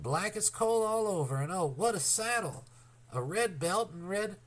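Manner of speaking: high, eager and breathless with delight; excited boy. A narrator's reading. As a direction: gush over the new pony. Boy thrilled by his pony.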